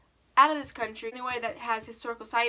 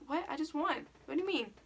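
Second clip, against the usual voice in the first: retold surprise; 5 semitones higher than usual. Stunned at losing the game.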